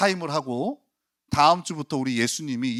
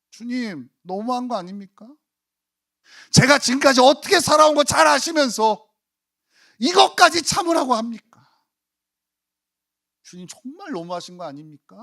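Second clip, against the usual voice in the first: pleading then much louder, higher outcry; indignant protest; 9 semitones higher, 6 dB louder than usual. Pretend. Believer protesting to the Lord, rising indignant outcry. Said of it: "우리는 항변할 겁니다".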